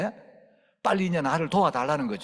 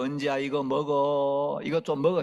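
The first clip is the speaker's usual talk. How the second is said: gentle coaxing. Retold or imitated. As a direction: beg the child to eat. Grandparents coaxing child to eat.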